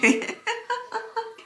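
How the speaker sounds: high giggle bursting out; bright laugh. Real, not acted. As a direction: laugh at your own confession. Laughing at herself while eating. (높은 톤의 웃음)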